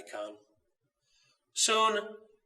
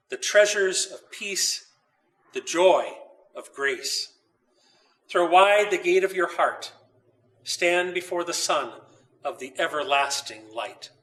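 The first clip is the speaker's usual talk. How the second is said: solemn quote reading. Acted. Reads a saint's quote.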